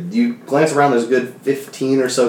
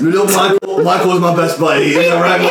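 boastful goblin; 7 semitones higher than usual. Acted. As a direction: proclaim yourself the new leader. GM voices goblin leader Michael.

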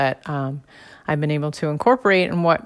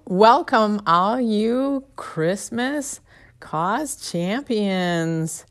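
festive welcome; 5 semitones higher, much slower than usual. Pretend. Festive show opener after Santa laugh.

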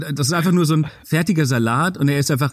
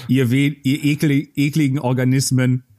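put-on old speech synthesizer. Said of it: "Ich bin ein Computer".

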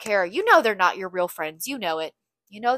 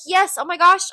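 mock-eager, high and loud gush; gushing yes; 9 semitones higher, 8 dB louder than usual. To the yoga studio girls, a put-on eager gush. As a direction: fake delight, oversell the yes.

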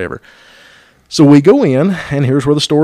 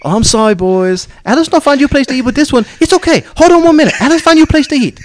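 mock broken English; 13 semitones higher, 4 dB louder, faster than usual. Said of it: "And Alice says".

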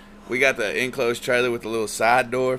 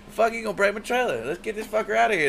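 higher-pitched alarmed yell; retold yell; 10 semitones higher than usual. Yelling as the drunk buddy wrecks the trailer, alarmed. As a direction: shout it like your trailer is getting wrecked.

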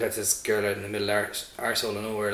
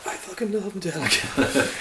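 higher, thrilled outburst; excited; 9 semitones higher than usual. Retold or imitated. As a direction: gush about a band. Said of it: "and then I was like".

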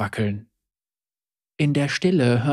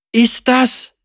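disbelieving; 7 semitones higher than usual. A narrator's reading. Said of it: "fragte Syama ungläubig".

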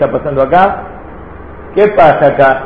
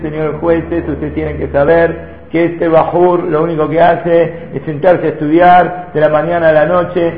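calm, measured testimony. Retold or imitated. Rabbi addressing the judges for his student, very calm. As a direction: lay out the facts to the judges calmly. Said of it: "Con la voz muy tranquila".

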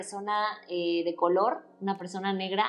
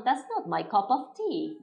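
English phrase; 3 semitones higher than usual. Shown as a demonstration. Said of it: "una frase muy inglesa".

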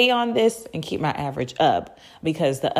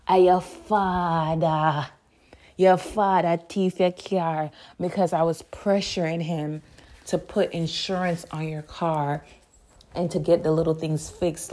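calm, sure. Retold or imitated. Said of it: "very calm, sure voice".

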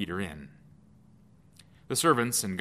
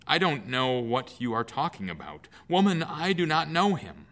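rising into a loud denial on woman; a flustered, defensive brush-off; heated denial; 5 semitones higher, 3 dB louder than usual. Acted. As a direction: deny it hotly, louder as it goes. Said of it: "he denied it in front of everyone".

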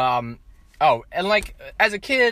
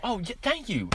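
softer, higher polite thank-you; underplayed, unconvincing gratitude; insincere thanks; 6 semitones higher, 8 dB quieter than usual. Speaker showing how they thank people for gifts, insincere. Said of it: "that sounds insincere".

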